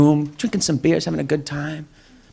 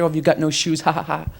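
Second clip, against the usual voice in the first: softer, put-on scornful ha-ha; mock disdainful laughter; 3 semitones lower, 7 dB quieter than usual. Comic showing how he does not laugh at bums, mock disdainful laughter. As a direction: imitate someone laughing with disdain. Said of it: "Not disdainful laughter".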